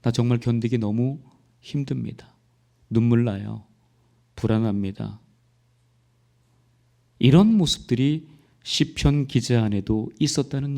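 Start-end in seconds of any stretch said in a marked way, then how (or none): 0.0-5.2 soft, broken prayer of a weary soul; tearful confession. Retold or imitated. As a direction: confess your distress to God quietly. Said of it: "시편 기자도 그걸 고백한 거예요". (조용히 흐느끼듯 고백하는 기도)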